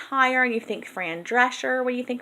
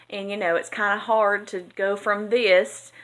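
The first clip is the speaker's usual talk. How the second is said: Southern accent. Shown as a demonstration. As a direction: let the Southern accent show here. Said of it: "to talking like this".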